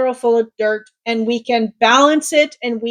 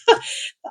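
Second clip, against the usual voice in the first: soft breathy laugh; 4 dB quieter than usual. Real, not acted. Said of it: "I'm getting emotional".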